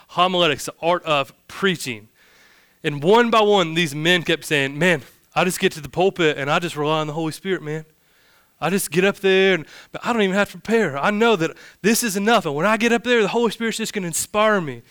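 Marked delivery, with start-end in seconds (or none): 4.8-14.8 mock country accent. Pastor boasting to colleagues at a roundtable, mock country accent. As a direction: poke fun in a country accent. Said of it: "I'm doing a country accent when I make fun of those guys".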